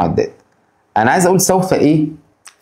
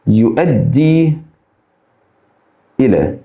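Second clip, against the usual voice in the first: slow teaching repeat; 3 semitones lower, much slower than usual. Shown as a demonstration. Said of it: "lead to".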